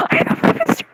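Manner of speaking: very high, loud airy squeal; excited fan squeal. Retold or imitated. Fan blurting love of the game, squealing.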